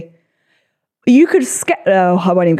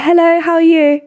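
much higher, sweet feminine greeting; put-on girly voice; 9 semitones higher than usual. Greeting guys in Ibiza in a much higher put-on girly voice. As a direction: pitch it way up to sound girly. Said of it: "really put on a female voice".

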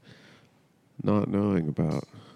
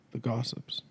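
whispered; 9 dB quieter than usual. Pretend. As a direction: breathe it out unvoiced. Whispered word in dramatic monologue.

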